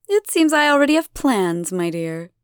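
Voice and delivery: a light touch of a lofty, teasing lady; lightly voiced amused goddess; coy goddess. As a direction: brush him off sweetly. Elena coyly refusing the father.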